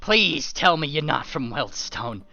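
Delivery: high, loud pleading shout; husband pressing the guest; urgent loud demand. Acted. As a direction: demand it, desperate.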